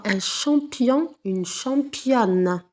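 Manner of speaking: slow pair with "championne" stretched; teacher modelling the feminine; slow teaching demo. Shown as a demonstration. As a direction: drag out "championne". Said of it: "on double la consonne".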